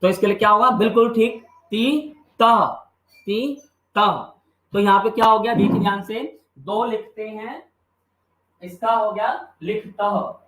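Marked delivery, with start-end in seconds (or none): 1.4-4.3 slow drill. Shown as a demonstration. Teacher spells out suffixes slowly.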